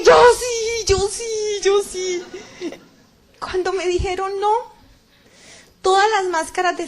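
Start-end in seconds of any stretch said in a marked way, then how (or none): 0.0-2.2 high, loud cry of yo sí, fading; desperate shout. Retold or imitated. Retelling her judgment, she cries out loud and high. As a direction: shout it out, voice cracking near tears. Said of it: "Y yo grité".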